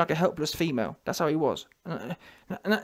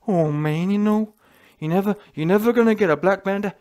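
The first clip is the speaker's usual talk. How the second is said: mock Wilder. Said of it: "he put a whole video out saying".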